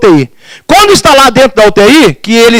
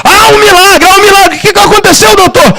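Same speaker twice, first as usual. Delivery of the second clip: high, excited retold reaction; astonished excitement; 9 semitones higher than usual. Family questioning the doctor about a miracle, astonished and excited. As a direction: echo the news in a high, eager rush.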